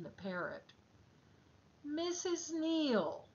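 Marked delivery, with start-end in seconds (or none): 1.8-3.3 stern call. Acted. Flight attendant calls the mother.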